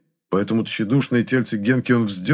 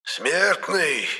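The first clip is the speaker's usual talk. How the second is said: high, eerie, grating cry of an angry ghost; grating spirit voice; 7 semitones higher, 4 dB quieter than usual. A narrator's reading. Angry ghost screeches at the hero. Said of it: "гневно проскрежетал дух".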